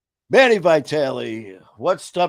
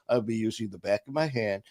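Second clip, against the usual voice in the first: professional tone; 3 semitones lower, 5 dB quieter than usual. Retold or imitated. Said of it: "trying to be all professional".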